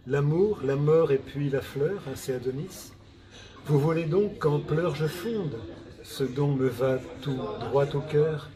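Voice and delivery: measured, rhythmic verse reading; poem recitation. Acted. Poet answering a lady's dedicated poem in octosyllables, rhythmic recitation. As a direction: let each short rhymed line stand apart.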